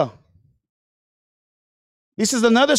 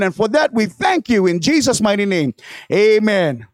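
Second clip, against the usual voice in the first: prayer; 3 semitones lower than usual. Acted. Leads a prayer.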